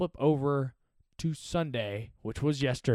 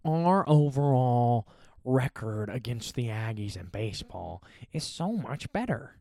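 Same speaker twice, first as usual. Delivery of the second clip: mocking Texas fan; 2 semitones lower than usual. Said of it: "Texas fans were like".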